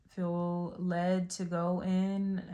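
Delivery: slow, deliberate weight on "led"; stress on "led". Real, not acted. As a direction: draw out "led" with emphasis. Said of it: "could feel the emphasis on that word led".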